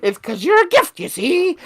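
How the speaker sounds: clipped radio-serial villain, you see; 1950s narrator. Retold or imitated. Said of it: "That's what I imagine".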